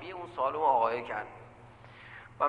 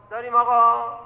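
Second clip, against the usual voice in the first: "داریم آقا" said louder and higher, pressing the point; louder insistent; 5 semitones higher, 8 dB louder than usual. Shown as a demonstration.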